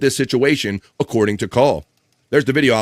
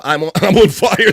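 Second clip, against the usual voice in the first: mock panicked captain; 7 semitones higher, 6 dB louder than usual. Mimicking panicked boat captain.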